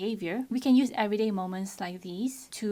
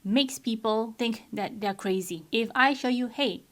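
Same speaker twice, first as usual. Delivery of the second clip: firm; 5 dB louder than usual. Retold or imitated. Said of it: "I was very firm with them".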